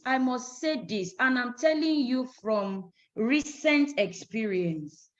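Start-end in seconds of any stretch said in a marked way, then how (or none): 3.2-5.1 RECENT set apart slowly and deliberately; emphatic, measured RECENT; stress on RECENT. Real, not acted. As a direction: lean on the word recent, drawing it out. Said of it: "the emphasis on the word recent".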